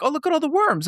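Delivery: high, eager mock wonder; imitated excitement. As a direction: gush over the worms like a stranger. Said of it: "they'd be like".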